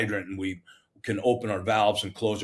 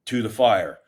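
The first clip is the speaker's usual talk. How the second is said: laughing label read; 4 dB louder than usual. Retold or imitated. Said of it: "and I wrote".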